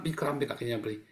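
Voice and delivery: composed imitation of telling Dad; calm. Son telling trusted father about a cramp, calm. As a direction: report trouble without any panic. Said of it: "saya tenang".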